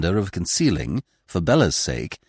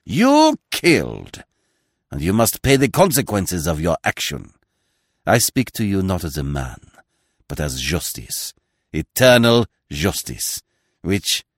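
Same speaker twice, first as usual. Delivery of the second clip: solemn pronouncement. Acted. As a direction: pronounce it as justice itself. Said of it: "solemnity of the moment".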